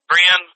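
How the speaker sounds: "friend" stretched toward "free-end"; drawn pronunciation of friend. Shown as a demonstration. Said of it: "it's pronounced".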